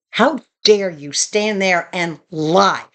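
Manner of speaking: slow, measured indignation; retold stern rebuke, each word spaced out; firm, not loud. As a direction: confront them firmly without raising your voice. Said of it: "I didn't get loud, but I got firm".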